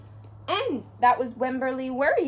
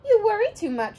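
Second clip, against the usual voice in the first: a louder, higher mother's scolding; 8 semitones higher, 6 dB louder, faster than usual. Acted. Mother to her worrying daughter, a lightly voiced scold. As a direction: chide the child, a bit raised. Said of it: "said her mother".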